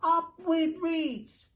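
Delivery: high slow joyful hoot. A narrator's reading. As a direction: hoot it with delight. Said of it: "And they hooted".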